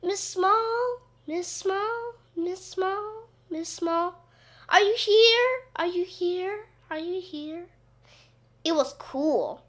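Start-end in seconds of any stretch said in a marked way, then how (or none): 0.0-7.7 high echo fading away with each repeat. A narrator's reading. Gym walls repeat the teacher's call, fading echo. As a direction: mimic a call bouncing off walls, dying away. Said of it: "there was an echo in the gym".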